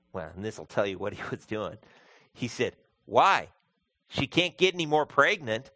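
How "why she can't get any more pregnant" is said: put-on flippant young man. Quoting young man's flippant reply.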